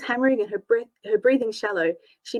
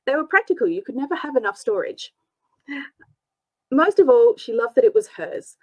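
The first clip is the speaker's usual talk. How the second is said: steady read-aloud storyteller; story narration. A narrator's reading. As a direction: narrate the chapter evenly. Narrator reads novel aloud.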